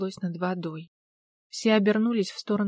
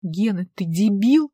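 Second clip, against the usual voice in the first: loud barked rebuke; loud barking snap; 5 dB louder, slower than usual. Acted. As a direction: bark at him to hurry. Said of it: "гаркнула Алла".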